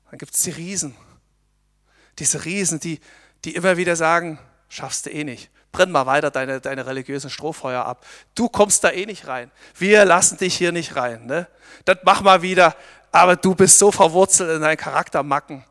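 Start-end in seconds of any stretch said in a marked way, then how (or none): 4.7-15.6 taunting giants. Acted. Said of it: "Das flüstern uns ... diese Riesen ein".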